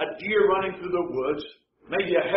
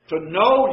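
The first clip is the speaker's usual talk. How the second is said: "know" said louder, leaned on; stress on know; 6 dB louder than usual. Shown as a demonstration. Preacher explains a word, stressing it. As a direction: lean into "know" to flag the word. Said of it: "using that word".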